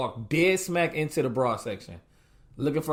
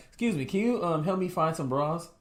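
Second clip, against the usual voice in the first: higher, hesitant polite request; asking voice; 4 semitones higher than usual. Retold or imitated. Husband asking a store clerk for help finding bras, high polite asking voice. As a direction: pitch it up into a timid customer voice. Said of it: "Is that the voice you use?".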